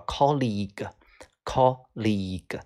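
"colleague" said slowly and carefully; model pronunciation. Shown as a demonstration. Teacher showing students how to read it, slow careful "colleague". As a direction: draw out "colleague", stretching the long "league". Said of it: "知道怎么读".

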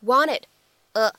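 "wanted", pause, then "a"; unlinked "wanted a"; words kept apart. Shown as a demonstration. Separate words before linked demo.

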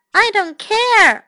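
loud, high, drawn-out yell; defiant yell. A narrator's reading. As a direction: shout it as the stubborn child in the story. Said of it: "Amanda yelled".

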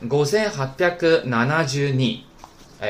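五千八百七十 二 in Japanese, "gosen happyaku nanajū ni", drawn out part by part; linked up slowly. Shown as a demonstration. Teacher links the parts for students, 五千八百七十 二 slowly in Japanese. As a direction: slowly join each piece of 五千八百七十 二 in Japanese. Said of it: "连起来".

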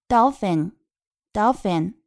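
"Dolphin" said slowly, stressed on DOL; stress on first syllable. Shown as a demonstration. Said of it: "重音在前面". (“Dolphin”重音在第一个音节)

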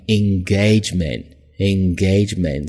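"engagement" said slowly and clearly, twice; careful pronunciation. Shown as a demonstration. Teacher modelling a word's pronunciation. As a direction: model each syllable of "engagement". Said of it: "注意这个单词的发音".

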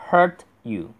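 "hurt you" apart, t released before you; separated pronunciation. Shown as a demonstration. Teacher gives the unlinked option, "hurt you" as two distinct words. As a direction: break between "hurt" and "you". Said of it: "把那个t读出来".

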